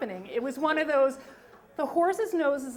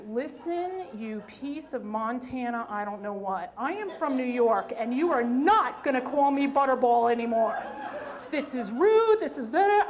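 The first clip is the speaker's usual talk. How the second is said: a retold snap, half-hammed; mild angry rant; 3 dB louder than usual. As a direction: go off on her, getting louder. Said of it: "I snapped".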